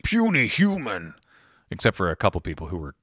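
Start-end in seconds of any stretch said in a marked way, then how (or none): 0.0-1.1 slow hulking brute sneer; booming arrogant alien overlord. Retold or imitated. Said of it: "talk like this".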